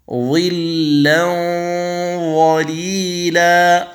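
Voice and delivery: ينظرون drawn out with the nasal hum held; slow tajweed recitation. Shown as a demonstration. Teacher demonstrating ikhfa before ظ, slow recitation. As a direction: chant ينظرون slowly through the nose. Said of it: "التنوين".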